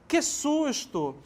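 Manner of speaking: high, slow que susto; startled exclamation. Shown as a demonstration. Teacher isolating the exclamation, high startled tone. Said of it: "entonação diferente".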